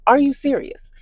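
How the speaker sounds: breathy disbelieving whisper; exasperated whisper. Retold or imitated. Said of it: "I was getting upset because I was like".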